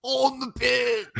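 drawn-out, put-on English delivery; Andy Reid. Asked to redo the bit as a coach, slow odd English accent. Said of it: "now do that as Andy Reid".

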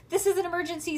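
alarmed announcement; urgent alarm. A narrator's reading. Bean jumps up in alarm.

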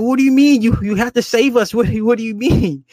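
high, loud imitated protest; hammed-up high-pitched disbelief; mock passenger outrage. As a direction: act out a panicked crowd, voice shooting up. Panicked passengers protest in story.

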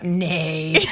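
flat robotic horse neigh. Retold or imitated. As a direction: say it like a machine. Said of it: "in the most robotic voice ever".

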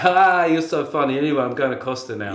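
loud mocking laugh then quick brush-off; dismissive wife. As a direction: brush him off breezily. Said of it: "she's like".

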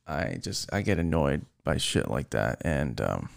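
real post-rant comedown, voice sinking low; subdued admission. Real, not acted. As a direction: drop to a low, quiet, apologetic register. Apologizing after an angry rant.

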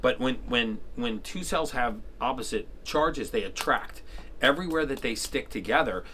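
numb tongue, gauze in mouth; mouth full. Real, not acted. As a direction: speak around a wad of gauze. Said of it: "sound like a chipmunk 'cause half my tongue is numb".

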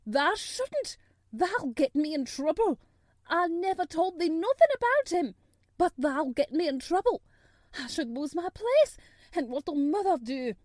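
high, loud, near-tearful pleading; plead, close to tears and frightened; a frightened maid begs, high and loud, near tears; half crying. A narrator's reading. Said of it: "she said, half crying".

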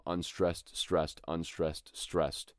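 stressed and unstressed said slowly in alternation; demonstrating iambic rhythm. Shown as a demonstration. Teacher demonstrating iambic rhythm, slow. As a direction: lean slowly on each "stressed". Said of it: "that same rhythm".

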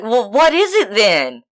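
high, mock-exasperated partner; lightly hammed-up demand for an answer; retold baffled question.

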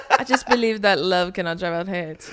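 lightly mocked dumb bro; imitating men. Mocking a bro's profound talk, imitated man voice. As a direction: mimic a man sounding falsely profound. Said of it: "You sound so fucking dumb, bro".

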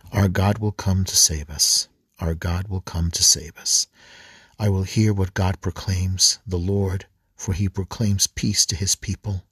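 measured, slightly firm psalm reading; scripture reading. Acted. Preacher reading Psalm eighty-five to the congregation, measured recitation. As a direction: read the psalm aloud with a steady refrain.

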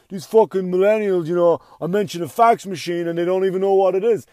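a hint of a griping old-timer; grumpy older comic. Older comic griping about millennials, lightly voiced. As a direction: complain like a bitter veteran comic. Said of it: "older comics get mad".

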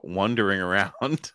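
"wandering" said like "wondering", rising; imitated mispronunciation. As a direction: mimic "wandering" with an "uh" vowel. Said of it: "wondering, like, wondering about something, but".

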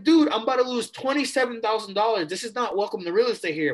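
half-laughing alarm at losing the money; retold panic. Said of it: "I'm freaking out".

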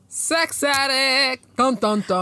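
high, drawn-out announcement with suspense sting; mock dramatic reveal. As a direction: stretch it out like a soap cliffhanger.

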